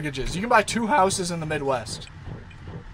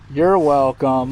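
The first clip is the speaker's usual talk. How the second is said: louder, slow, stretched welcome; loud drawn-out you're welcome; 8 dB louder, slower than usual. Shown as a demonstration. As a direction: lean into it, drag it out. Thanking the dog after vet.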